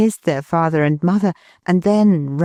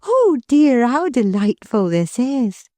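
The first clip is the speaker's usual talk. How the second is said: put-on higher, gentle young wife's voice; Milly, tender; 7 semitones higher than usual. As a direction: lovingly reassure her husband. Milly delighted by the children.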